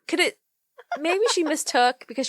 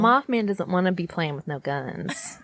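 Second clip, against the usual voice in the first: sassy twangy put-on accent. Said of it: "I love your accent".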